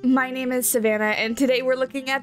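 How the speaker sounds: hoarse, stuffy cold voice. Real, not acted. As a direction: speak through a head cold. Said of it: "I do have to apologize if I sound a little bit off. I have a terrible cold".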